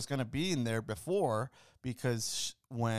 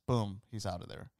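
ordinary talk, nothing marked

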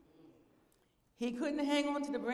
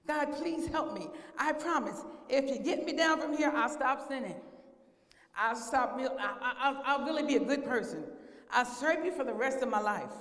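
desperate pleading; 3 semitones higher, 4 dB louder than usual. Acted. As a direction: stumble through promises, begging to be saved. Jack begs God with promises.

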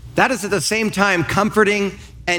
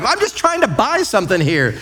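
mock protest; 5 semitones higher than usual. Shopper answering the recording screen, mock protest. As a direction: protest back like a put-upon shopper.

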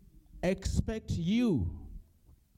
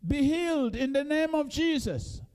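commanding rebuke; 9 semitones higher than usual. Pretend. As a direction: cast it out with full force. Preacher acting out commanding a demon.

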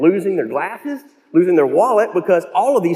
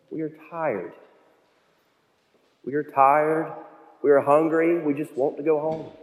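weary doubt. Retold or imitated. Peter to Jesus after a fruitless night, weary and doubtful. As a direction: let the exhaustion and uncertainty of a long night show. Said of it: "You hear the doubt in Peter's voice".

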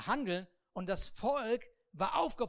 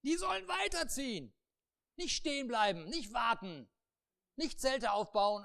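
loud, higher command; God commanding; 4 semitones higher, 4 dB louder than usual. Acted. God commands Moses the people must move on. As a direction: order it firmly.

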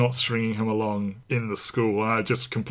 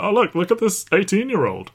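mocking sleazy voice; 10 semitones higher, 6 dB louder than usual. Mocking leering movie producers.

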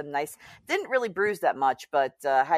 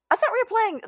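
high mock whine; faster than usual. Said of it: "And I was just like".

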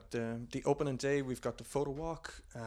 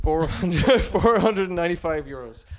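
loud, drawn-out price announcement; dramatic reveal; 6 semitones higher, 16 dB louder, slower than usual. Acted.

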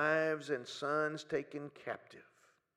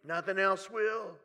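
loud, high, pleading cry to God; desperate shouted prayer, then fading; 6 semitones higher, 7 dB louder, slower than usual. Pretend. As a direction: call out to God in raw anguish. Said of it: "But we can say".

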